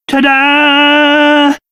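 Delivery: high, held note of triumph; showy reveal. Acted. King unveiling his alchemy pot, proudly showy. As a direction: present it with a proud flourish.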